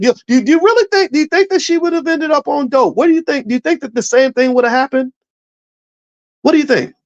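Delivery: high-pitched, insistent rhetorical questions; pressing questions. Real, not acted. Speaker challenging the audience about Simone Biles's mother, high and insistent. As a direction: push the crowd for an answer.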